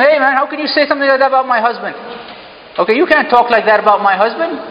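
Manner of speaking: high, quick protest; confronting a gossip. Acted. Wife confronting a gossiping woman.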